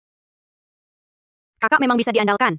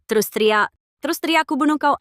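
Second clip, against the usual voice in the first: rising into a high angry yell; furious threat; 5 semitones higher than usual. Acted. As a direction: snap at the child, building to a threat. Stepmother threatens screaming child.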